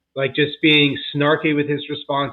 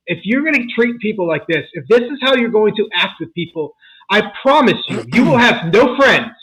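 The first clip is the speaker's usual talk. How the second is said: put-on higher and louder, scolding a kid; retold angry yelling; 7 semitones higher, 4 dB louder than usual. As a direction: yell a furious warning at your stepson. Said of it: "I just started yelling at him".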